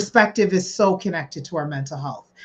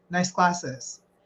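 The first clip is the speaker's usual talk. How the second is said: soft, level, uninflected, flat monotone; 7 dB quieter than usual. Showing how saying nice glasses to Kim can hide sincerity, said monotone. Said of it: "and I'm pretty monotone".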